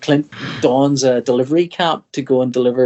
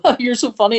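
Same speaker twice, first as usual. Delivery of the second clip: mock girly giggle; 9 semitones higher than usual. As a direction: play the giggling girl. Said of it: "have the girl laugh and go".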